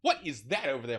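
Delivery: silly diva curiosity, loud; theatrical wondering; John Barrowman. Retold or imitated. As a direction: imitate a flamboyant passenger's exclamation. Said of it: "he keeps being silly".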